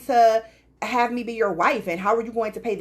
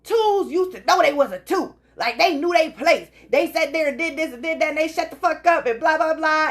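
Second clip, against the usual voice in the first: imitating TikTok guy; 5 semitones higher than usual. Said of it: "he's like".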